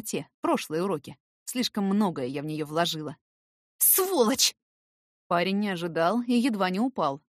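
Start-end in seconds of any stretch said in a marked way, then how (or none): 3.8-4.5 higher, spat-out curse; high angry cry; furious insult. A narrator's reading. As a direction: hit him with the word. Heroine slapping Eric.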